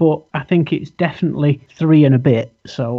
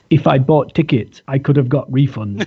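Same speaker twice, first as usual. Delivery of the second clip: put-on light Pakistani accent on the quote. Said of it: "he probably didn't say it in a Pakistani accent like me".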